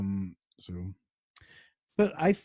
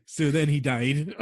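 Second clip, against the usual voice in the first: laughing; 6 semitones higher, 4 dB louder, slower than usual. Real, not acted. Resuming sad story amid giggling fit.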